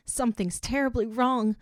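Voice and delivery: realizing the danger; panicked. A narrator's reading. Panic in shower.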